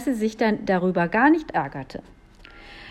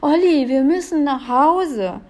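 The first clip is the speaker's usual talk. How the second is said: high, loud urgent call; alarmed cry; 6 semitones higher, 5 dB louder than usual. A narrator's reading. Julia urges her brother home, crying out alarmed. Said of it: "rief Julia erschrocken".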